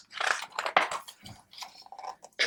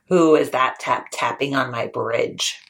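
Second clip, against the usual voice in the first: low troll challenge; 6 semitones lower than usual. Acted. Troll demanding who crosses his bridge, low. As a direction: growl it from under the bridge.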